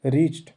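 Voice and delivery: रीच्ड as one syllable, "reecht"; corrected pronunciation. Shown as a demonstration. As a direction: clip रीच्ड to one beat. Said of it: "रीचड नहीं पढ़ेंगे".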